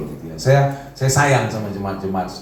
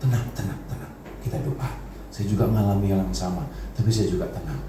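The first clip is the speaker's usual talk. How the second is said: calm, softened retold comforting; quiet, settling voice, as if calming a friend; gentle reassurance; 3 semitones lower, 4 dB quieter than usual. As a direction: soothe someone who is panicking. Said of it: "Saya tanya pelan-pelan".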